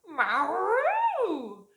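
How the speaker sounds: high loud cat yowl; hammed-up cat cry; cat meow. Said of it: "who hissed".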